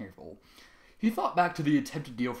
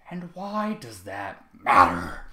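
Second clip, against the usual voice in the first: menacing; 4 semitones lower, 6 dB louder, much slower than usual. Acted. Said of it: "Trevor said with narrowed eyes".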